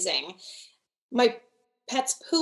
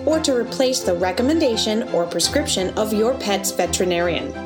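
fast legal disclaimer; 6 dB louder than usual. Acted. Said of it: "disclaimer over music".

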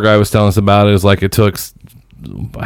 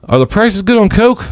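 higher, faux-naive question; mock innocent; 10 semitones higher than usual. Teller baiting the cop, mock innocent. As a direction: play dumb, sweetly. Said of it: "I was like".

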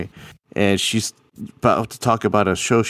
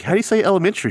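mock test; 11 semitones higher, much faster than usual. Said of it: "we're like".

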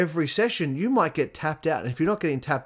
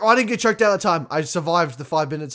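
relieved small win; 4 semitones higher, 4 dB louder than usual. Retold or imitated. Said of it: "It's like".

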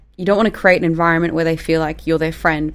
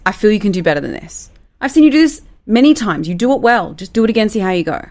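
higher and louder in the middle, encouraging; warm delivery; 4 semitones higher, 3 dB louder than usual. Shown as a demonstration. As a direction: lift the praise warmly. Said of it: "you can say it like this".

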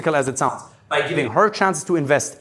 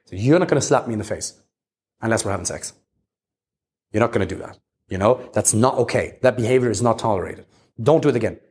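calm firm boundary; 5 semitones lower than usual. Retold or imitated. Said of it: "I did not give a fuck".

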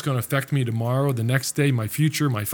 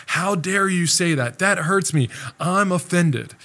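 mock offended; 6 semitones higher than usual. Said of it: "we say".

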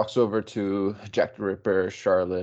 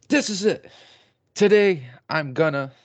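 high, squeaky, louder little creature; little bird voice; 8 semitones higher, 5 dB louder than usual. Retold or imitated. Nero on Asta's head psyching herself up, high squeaky voice. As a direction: pipe it up like a tiny bird psyching itself up.

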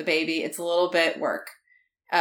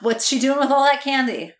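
mock wailing outcry; 7 semitones higher, 7 dB louder than usual. Mock horror outburst.

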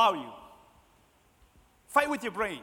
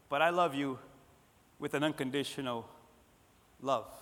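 gentle reassurance; 5 semitones lower, 3 dB quieter than usual. Acted. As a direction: sink lower, pausing before the final word. God's answer to earning love.

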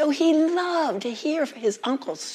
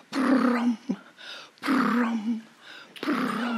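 purring drum sound; much slower than usual. Shown as a demonstration. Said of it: "you will hear the sound of the cat's drum".

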